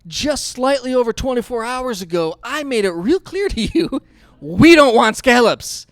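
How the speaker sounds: lightly voiced complaining stomach; voice of his stomach. Stomach scolding the preacher at night, mock grumble. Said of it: "my stomach wakes me up in the middle of the night going".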